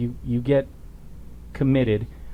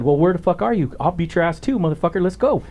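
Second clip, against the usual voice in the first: higher-pitched, mock-combative comeback; retold angry challenge; 5 semitones higher than usual. Officer challenging the caller to a fight, retold angry challenge. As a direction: throw down a retold dare.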